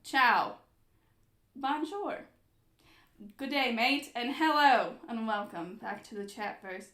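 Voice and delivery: hammed-up English accent for a greeting; put-on English accent. Host opening the travel video, put-on English accent. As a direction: welcome them in a mock-English accent. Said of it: "switch to an English accent".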